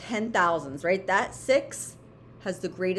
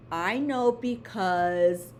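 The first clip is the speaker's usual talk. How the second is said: slow model sentence; 3 semitones lower, slower than usual. Shown as a demonstration. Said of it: "So I want you to say".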